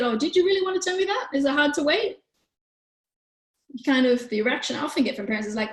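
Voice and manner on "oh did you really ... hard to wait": high, quick, caring questions; gentle empathetic parent. Acted. Parent gently naming a waiting child's feelings, caring. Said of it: "how does it feel when someone says to you instead".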